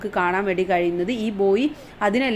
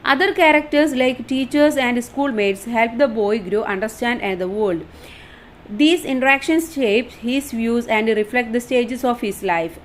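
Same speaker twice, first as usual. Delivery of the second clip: reading the English line out slowly, word by word; slow dictation reading; much slower than usual. Shown as a demonstration. Teacher reading the study notes aloud, slow and deliberate. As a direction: spell it out slowly for the class.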